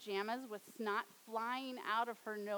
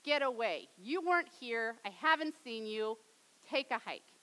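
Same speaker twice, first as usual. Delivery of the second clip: mock lashing out; 5 dB louder than usual. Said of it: "lashed out and said".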